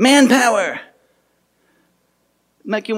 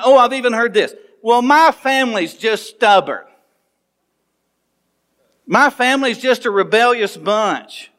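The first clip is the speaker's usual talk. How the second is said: lightly voiced stubborn churchgoer justifying himself; mock excuse; 5 semitones higher than usual. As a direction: play the defensive churchgoer making excuses. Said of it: "I'm justifying it".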